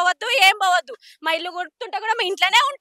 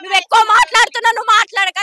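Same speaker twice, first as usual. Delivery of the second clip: louder mock order to shut up; woman retelling how the police told her not to talk, louder mock threat; imitating a threatening policeman; 5 dB louder than usual. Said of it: "అని police sir బెదిరించిండు".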